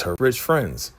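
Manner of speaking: "rich" leaned on with a teasing lift; stress on rich. Shown as a demonstration. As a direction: repeat "her rich friends" hitting "rich". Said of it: "She got her rich friends".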